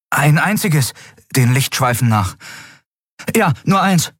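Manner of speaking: put-on high-pitched young boy's voice; boy character. Boy at the porthole reporting to Kai, boyish.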